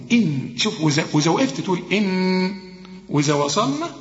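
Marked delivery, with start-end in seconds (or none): 0.1-0.5 "إن" with thin vowel and light held n; light noon. Shown as a demonstration. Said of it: "هنا هنرقق النون". 1.9-2.5 "إن" with a long held light n; light noon at a stop. Shown as a demonstration. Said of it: "هنا هنرقق النون".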